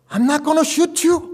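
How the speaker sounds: high, loud, very slow drawn-out English reassurance; imitating the aunt. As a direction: stretch each word out high and loud like a nervous aunt. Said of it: "막 이래요".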